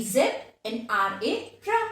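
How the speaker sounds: "zeb" and "ra" said as separate parts; split into syllables. Shown as a demonstration. Teacher divides zebra for students, split into syllables. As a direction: spell out and sound each part of "zeb, and R A, ra". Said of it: "divided into two individual words".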